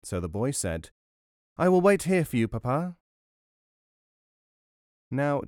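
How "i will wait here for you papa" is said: put-on high-pitched small boy voice; tiny storybook son, pitched up; little boy. A narrator's reading. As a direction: answer Papa as an obedient little child. Little boy answers his father.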